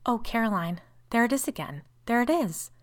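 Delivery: high-pitched, understated wail; wild wail. A narrator's reading. Sister wails to Caroline as the shadow returns, frightened. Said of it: "Rebecca burst out in a wild wail".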